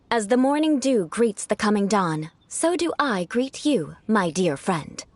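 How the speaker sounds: slow, courtly and ornate; aristocratic greeting. Shown as a demonstration. Noble teaching Paimon a formal greeting, slow and courtly. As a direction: recite it like a gracious noble. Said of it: "allow me to demonstrate".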